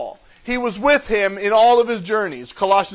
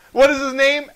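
higher-pitched leading question; mock inquiry; 4 semitones higher than usual. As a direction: pitch the question up as a comic setup. Acted question before deadpan answer.

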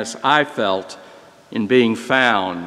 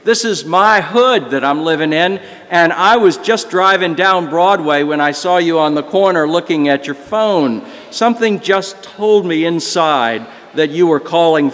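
mildly excited retold explanation; imitating a driver eagerly explaining, slightly higher; 4 semitones higher than usual. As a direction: share the story with a touch of excitement. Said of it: "he said excitedly".

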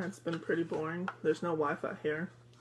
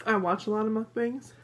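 talking while chewing; speaking mid-bite; mouth full; 5 semitones higher, 4 dB louder than usual. Real, not acted. Seen 1: Small powdered donut held at lips, biting while speaking.

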